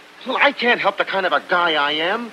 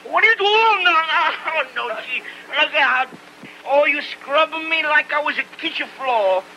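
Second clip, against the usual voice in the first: put-on higher, flustered Italian-accented protests; protesting; 6 semitones higher than usual. Tony protests as Lena scrubs him, flustered Italian accent.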